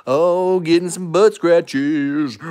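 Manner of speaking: cooing at the dog. Real, not acted. Rewarding dog with scratches.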